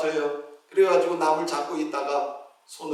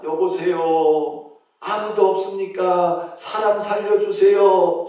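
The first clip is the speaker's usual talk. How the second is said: slow, drawn-out mock cries for help; calling for help; 4 dB louder, slower than usual. Preacher voicing the deacon hanging from a tree, calling for help. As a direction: call out slowly as if stuck on a cliff. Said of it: "소리를 질러요".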